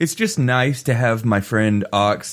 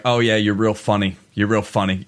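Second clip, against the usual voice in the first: sarcastic; 3 semitones lower than usual. Retold or imitated.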